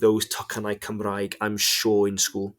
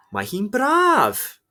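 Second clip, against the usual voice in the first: bright excited; 12 semitones higher, 4 dB louder, much slower than usual. Shown as a demonstration. Teacher demos sunny answer.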